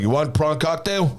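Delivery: mild Manchester-American mix, drawn out; lightly mimicked British-American accent, slow. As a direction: imitate a Mancunian gone American. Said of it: "mixture of a Ma-, Manchester and American accent".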